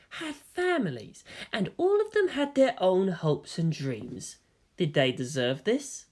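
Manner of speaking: quiet, slowed-down appeal over the fallen; lightly voiced troubled companion. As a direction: ask her gently whether they deserved this. Companion questions the carnage.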